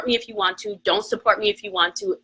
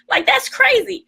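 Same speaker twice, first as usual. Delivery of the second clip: incredulous. Real, not acted. Ranting about the ambush.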